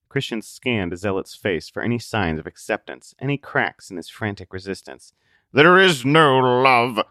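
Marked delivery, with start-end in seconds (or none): 5.5-7.0 loud, slow despairing cry; mild scream. Acted. Zealot dropping Christian in despair, mild scream. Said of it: "Zealot screamed".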